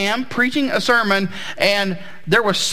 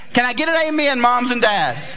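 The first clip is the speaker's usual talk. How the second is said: booming motivational speech; 4 semitones higher, faster than usual. Real, not acted. Calls congregation for amen.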